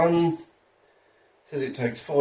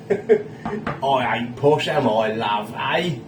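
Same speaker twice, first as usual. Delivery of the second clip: laughing mock common voice; much slower than usual. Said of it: "Are you posh and say afters?".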